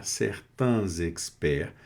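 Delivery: slow, linked "certains" with z into "experts"; liaison in "certains experts". Shown as a demonstration. Teacher repeating the linked form for learners, liaison in "certains experts". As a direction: sound the z between "certains" and "experts". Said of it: "uma liaison aqui".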